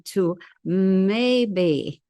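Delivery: maybe leaned on, drawn out a little; stress on maybe. Shown as a demonstration. Talking about the Trump-Putin meeting, stressing maybe. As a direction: put doubt into the word maybe. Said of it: "emphasis on the word maybe".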